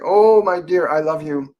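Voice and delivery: a mother's fond words with a hint of Slavic accent. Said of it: "it's like a Slavic accent".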